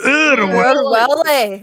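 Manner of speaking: Oor Willie drawn out slowly and loudly, rolled Scottish vowels; proper Scottish Oor Willie. Shown as a demonstration. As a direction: belt out Oor Willie the Scottish way, slow and loud. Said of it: "You three say it all together".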